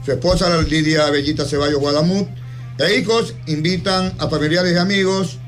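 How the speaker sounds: solemn radio invitation, evenly paced; formal announcement reading. Acted. Radio host reads a friend's memorial mass invitation to listeners, formal announcement.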